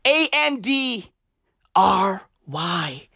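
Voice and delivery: letter by letter, slowly; spelling it out. Shown as a demonstration. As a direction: spell each letter out clearly. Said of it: "Let me spell it for you".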